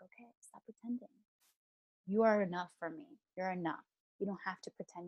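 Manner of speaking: calm her like a loving parent; quiet reassuring divine voice; gentle God. Retold or imitated. God's long gentle reassurance.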